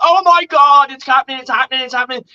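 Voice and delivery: high, loud rush of excitement; excited. Retold or imitated. Fan reliving a last-second catch, high and excited. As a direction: relive the miracle catch as it lands.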